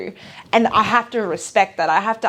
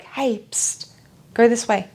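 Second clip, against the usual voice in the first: gentle inner voice. Retold or imitated. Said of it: "your little voice in your head".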